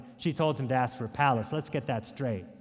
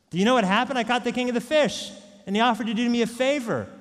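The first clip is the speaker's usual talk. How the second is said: excited fisherman; 7 semitones higher, 6 dB louder, faster than usual. Acted. Fisherman tells wife the news.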